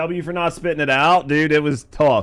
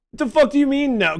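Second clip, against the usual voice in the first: fast, indignant disbelief; exasperated outburst; 9 semitones higher, faster than usual. Real, not acted. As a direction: blurt it out in protest. Protesting friends' refusal.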